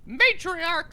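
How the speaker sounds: pompous disguised man yelling for the matriarch; shouting in character. Acted. Disguised visitor demands the matriarch, shouting. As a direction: bellow for the lady of the house. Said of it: "like, actually screaming".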